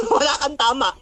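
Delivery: chuckling ridicule; laughing mockery. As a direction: repeat it through a mocking laugh. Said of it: "sabi mo".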